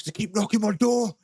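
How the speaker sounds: imitating an aggrieved householder, pitched high; high, mock-outraged protest; exasperated complaint. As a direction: complain like a fed-up victim of door knockers. Acting out the angry chasing householder.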